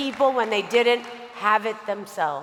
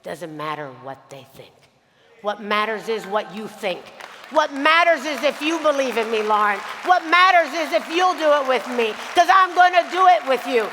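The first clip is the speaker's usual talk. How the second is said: earnest, building plea; 2 semitones higher than usual. Retold or imitated. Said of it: "looked at me dead in the eye".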